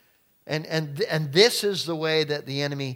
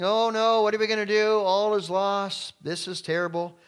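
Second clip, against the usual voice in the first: high, loud hammed-up lament; theatrical despair, higher and louder; mock wailing; 6 semitones higher, 4 dB louder than usual. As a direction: wail like the crowd has lost all hope.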